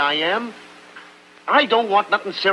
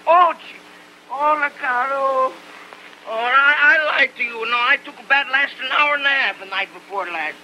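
put-on squirm and protest in an Italian accent; 3 semitones higher than usual. Tony protests as Lena scrubs him, flustered Italian accent.

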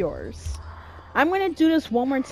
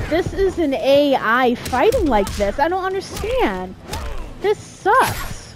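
high, whining protest at unfairness; exasperated complaint; 4 semitones higher than usual. Real, not acted. Player baffled by the AI's fighting, exasperated. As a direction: pitch jumping up in exasperation.

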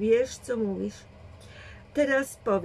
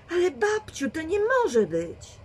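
wysoko i wolno, z niedowierzaniem; błagalnie, przestraszona dziewczyna; przerażony protest; 9 semitones higher, 4 dB louder than usual. A narrator's reading. (przerażony, wysoki protest)

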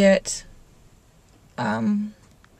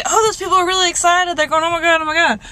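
a hint of a higher retold squeal; mock excitement; 8 semitones higher than usual. Vlogger lightly replaying her earlier excited reaction. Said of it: "earlier when I was like".

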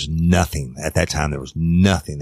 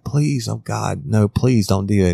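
frightened pleading; 5 semitones higher than usual. Retold or imitated. Victim begging the man threatening her, imitated pleading. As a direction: act out a desperate plea.

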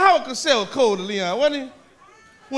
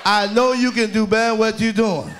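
Leon's mumbling talk; slower than usual. Retold or imitated. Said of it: "he can't talk".

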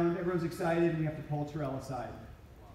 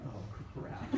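laughing under breath; 6 semitones lower, 11 dB quieter than usual. Retold or imitated. Caught out, laughing.

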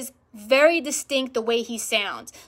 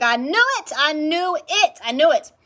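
raised, emphatic repeated exclamation; retold excited vindication; 4 semitones higher, 4 dB louder than usual. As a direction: replay the triumph of being proved right. Acts out being proved right.

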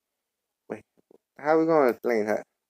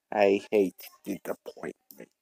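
menacing villain; 4 semitones lower, 6 dB quieter, slower than usual. Acted. Villain boss warns henchmen.

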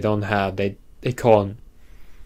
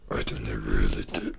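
whisper; 14 semitones lower, 8 dB quieter than usual. Real, not acted.

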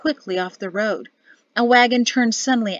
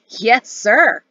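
louder, bright call down from the box; cheerful call; 3 semitones higher, 6 dB louder than usual. A narrator's reading. Cheerful corporal calling down to the officer. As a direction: answer the order eagerly, calling down. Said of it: "the cheerful corporal called down".

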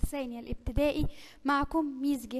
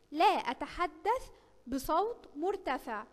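slow example reading; 3 dB quieter, slower than usual. Shown as a demonstration. Teacher reads example slowly.

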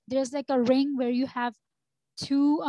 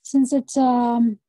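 corrupted glitchy audio; 2 semitones lower, 4 dB louder than usual. Real, not acted. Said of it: "I think the audio is cutting out".

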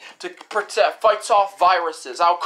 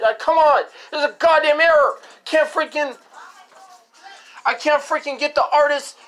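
raised, higher-pitched angry rant; frustrated rant; 6 semitones higher than usual. Real, not acted. Ranting at the computer error, raised and heated. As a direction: vent at the broken computer, voice climbing.

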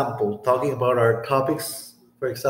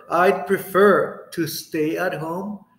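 slow model sentence. Shown as a demonstration. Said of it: "with prefer".

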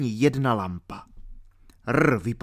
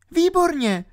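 put-on higher and louder, delighted girl; excited exclamation; 4 dB louder than usual. A narrator's reading. Alenka delighted R agrees, excited. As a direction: cheer it out. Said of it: "zvolala Alenka".

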